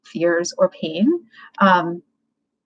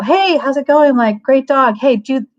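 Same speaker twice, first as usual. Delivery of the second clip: higher, louder breezy greeting; upbeat, casual hello; friendly opener; 4 semitones higher, 5 dB louder than usual. Shown as a demonstration. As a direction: hail a stranger with their dog. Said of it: "enter into the spirit of".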